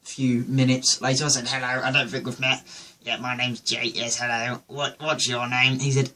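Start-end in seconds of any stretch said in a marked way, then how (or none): 1.5-5.8 quick mock-posh English introduction; lightly put-on upper-class politeness; posh accent. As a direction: imitate yourself gone posh after drinking. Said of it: "I talk posh".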